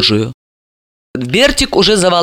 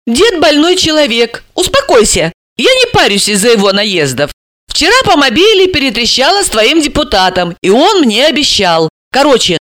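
lightly voiced Alisa, higher and explaining; 6 semitones higher than usual. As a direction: play Alisa reasoning with him.

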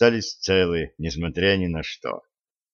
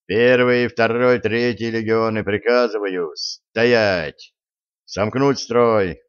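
gruff barked parade orders; slower than usual. Acted. Commander orders legions to halt.

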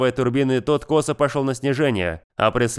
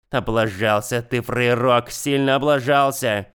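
slow, grim rebuke; gloomy; slower than usual. Acted. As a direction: grimly scold the dead man, slowly. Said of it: "угрюмо добавила". (угрюмо, медленно)

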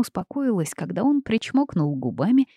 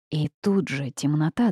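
ordinary delivery, nothing marked

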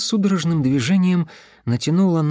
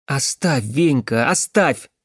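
stern; slower than usual. Acted. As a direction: command with a touch of firmness. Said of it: "как можно строже велела девушка". (строгий приказ)

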